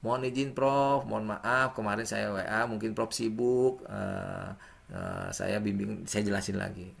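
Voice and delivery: slow, soft, apologetic follow-up; polite follow-up. Shown as a demonstration. Student demos a follow-up text after no reply, soft and apologetic. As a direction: gently remind a busy professor. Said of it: "Kalau sehari belum dibalas".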